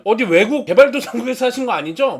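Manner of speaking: half-joking jab; joking question. Retold or imitated. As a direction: poke fun with a cheeky grin. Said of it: "막 약간 농담처럼 했어요".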